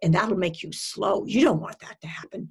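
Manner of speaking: lightly acted nagging inner critic; mildly hammed-up scaremongering; eating-disorder voice. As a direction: warn like a fretful voice on the shoulder. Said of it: "what's your eating disorder voicing".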